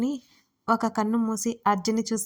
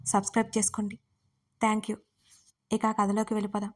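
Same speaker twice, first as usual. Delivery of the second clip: storyteller's direct request to subscribe; channel appeal. Real, not acted. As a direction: ask the audience kindly for support.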